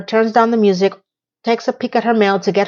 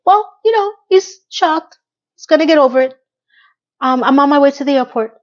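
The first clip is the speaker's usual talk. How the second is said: breezy high Miranda; 5 semitones higher, 3 dB louder than usual. Retold or imitated.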